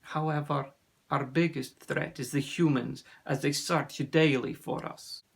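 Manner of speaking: put-on accented, measured storyteller; grave sea serpent. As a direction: tell the danger gravely, with a lightly voiced foreign accent. Narrator plays Ossian, sea serpent.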